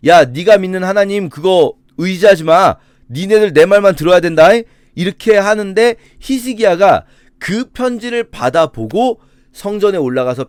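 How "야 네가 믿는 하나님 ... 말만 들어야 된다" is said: louder, higher retold royal threat; mock threatening king. Assyrian king's letter warning Hezekiah's people, lightly acted threat. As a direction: lightly act out an enemy's bullying warning. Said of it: "이 편지를 보내서".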